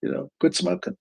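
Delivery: a hint of a breezy, dismissive voice; dismissive know-it-all. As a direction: lightly play someone who thinks quitting is easy. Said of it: "somebody says to you".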